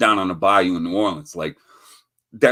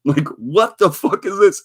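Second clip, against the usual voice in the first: mock locals; 5 semitones higher than usual. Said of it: "They're like".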